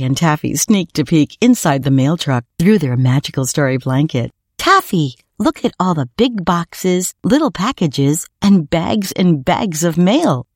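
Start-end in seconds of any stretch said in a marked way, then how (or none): 4.6-10.5 put-on higher-pitched, marvelling little boy; excited child. PJ to Taffy inside the mail truck, excited. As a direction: point out each wonder eagerly.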